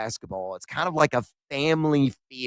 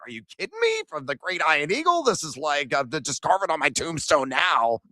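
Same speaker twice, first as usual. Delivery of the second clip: mock disbelief; 2 semitones higher than usual. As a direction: gush like a fan who can't believe it. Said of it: "And I was like".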